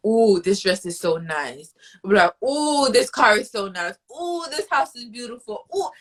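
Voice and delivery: ooh and ahh at each shiny item; mock swooning shopper; dreamy wanting.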